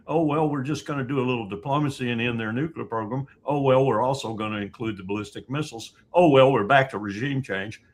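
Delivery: sarcastic, fast, imitating officials' flip-flops; mock the ever-changing story; mocking shifting excuses. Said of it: "I've heard everything from".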